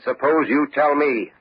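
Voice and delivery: slow, deliberate repeat of the accusation; repeated slowly. Acted. Detective repeats to the suspect slowly and pointedly. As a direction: spell it out slowly to make him hear. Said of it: "I said".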